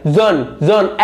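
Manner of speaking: जन with the vowel held long; teacher modelling जन with a long vowel; long sound demo. Shown as a demonstration. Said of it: "इसकी sound long आ रही है".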